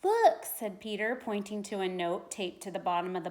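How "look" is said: excited. A narrator's reading. Peter calls out discovery.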